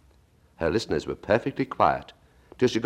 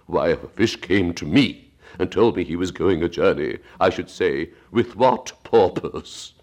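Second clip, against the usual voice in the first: slow Mock Turtle voice; 4 dB louder than usual.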